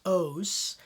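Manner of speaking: "os" with a long closed O. Shown as a demonstration. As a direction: say "os" with a long round oh. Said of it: "is a long O pronounced".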